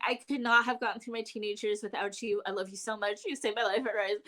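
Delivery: mildly mock-tearful devotion; retold blubbering. Fan telling the author she saved her life, lightly mock blubbering. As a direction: gush as a blubbering fan, breaking up at the end. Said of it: "like, blubbering".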